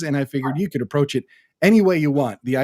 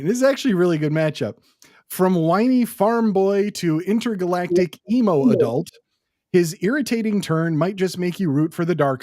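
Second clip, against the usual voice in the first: ring announcer; 3 semitones higher than usual. Shown as a demonstration. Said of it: "my ring announcer voice going here".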